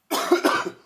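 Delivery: sharp chesty cough. Real, not acted. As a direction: cough once, hard. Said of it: "Sorry for coughing so much".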